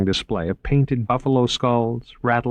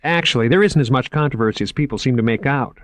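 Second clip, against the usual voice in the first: higher, keen salesman voice; lightly raised, enthusiastic museum man; eager curator Moriarty; 5 semitones higher, 3 dB louder, faster than usual. Acted. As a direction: pitch the exhibit like an excited young curator. Moriarty voice again.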